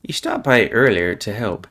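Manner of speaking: normal talking voice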